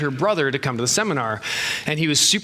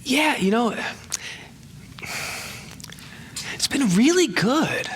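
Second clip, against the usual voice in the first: higher, slow, drawn-out answer; slow, thoughtful reply; 9 semitones higher than usual. Retold or imitated. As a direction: find the feeling word by word, slowly. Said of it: "and he went".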